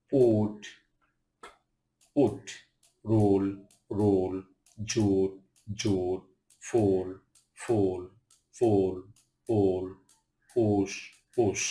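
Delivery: পুট, পুশ with U said as "oo"; each word from পুট to পুশ alone, "oo" vowel, falling. Shown as a demonstration. Teacher drilling U words for learners, "oo" in পুট. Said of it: "ইউ উ এর মতো হয়".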